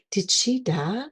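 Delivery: softly voiced, careful question; hushed question. Patient asking the nurse about a death, hushed. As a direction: ask it gently, under your voice.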